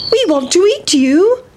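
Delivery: lightly voiced eager children; hungry little boys. A narrator's reading. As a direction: boys chasing their dinner. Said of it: "shouted the seven little boys".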